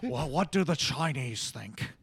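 lightly voiced presidential impression; Richard Nixon. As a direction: consult an aide as the president. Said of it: "can you quickly do your Richard Nixon".

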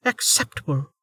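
curt, clipped snap; snapping. Acted. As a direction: snap the word back. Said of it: "Velika snapped".

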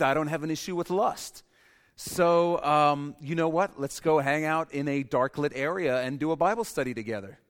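lightly voiced smug believer; breezy, careless mock confidence; naive overconfident Christian. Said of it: "It's like".

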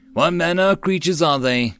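high, curious questioning. A narrator's reading. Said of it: "Seal asked curiously".

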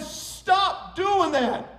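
hammed-up cry of distress; acted protest. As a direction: protest as if suffocating, stretched out. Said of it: "I thought I was gonna suffocate".

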